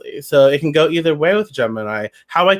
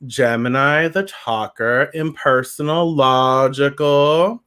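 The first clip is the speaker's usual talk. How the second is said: drawn-out reading; slower than usual. Pretend. Slow, stretched re-reading of the card.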